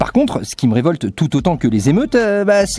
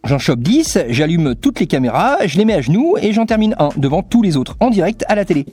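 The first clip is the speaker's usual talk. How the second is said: Negan villain; 2 semitones higher than usual. Acted. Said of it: "en mode Negan dans The Walking Dead".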